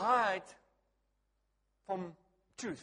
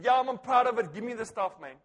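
louder laughing defiance; mock-proud laughing; 2 semitones higher, 10 dB louder than usual. Husband answering his wife, laughing and defiant. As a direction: brag playfully through laughter.

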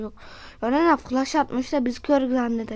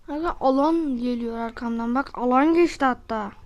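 being chased; 4 dB louder than usual. Real, not acted. Fleeing the closing zone.

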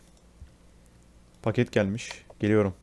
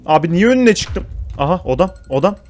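panicked rant; 4 semitones higher, 5 dB louder than usual. Real, not acted. Fleeing, panicked running commentary.

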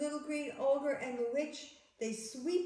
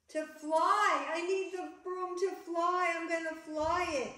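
higher-pitched storybook excitement; excited declaration; 5 semitones higher, 3 dB louder than usual. Acted. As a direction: announce it eagerly as the witch. Witch eagerly explains flying.

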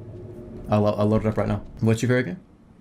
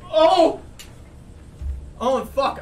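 high, startled cry still hurting; pained groan; 12 semitones higher, much slower than usual. Real, not acted. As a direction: wince it out. Hit mouth on desk.

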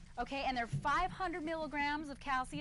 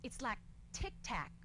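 Bush impression; 3 semitones lower, 6 dB quieter, slower than usual. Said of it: "Bush stood up ... and said".

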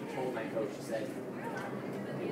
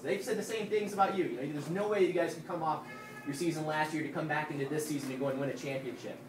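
loud, rising fired-up pep talk; halftime pep speech; 7 semitones higher, 5 dB louder than usual. Real, not acted. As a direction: pump up the team, almost shouting. Pep talk to championship team.

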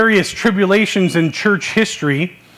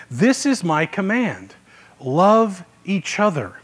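slow, deliberate reading with pauses between phrases; measured, weighty Bible reading; slow scripture reading. Real, not acted. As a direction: read it slowly so each phrase sinks in. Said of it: "I'm gonna read it slow".

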